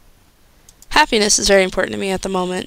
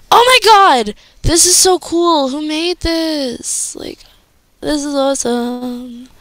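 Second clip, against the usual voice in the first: thrilled squeal; 5 semitones higher, slower than usual. Real, not acted. Fan seeing cool fan art, thrilled high squeal. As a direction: gasp out your joy at the art.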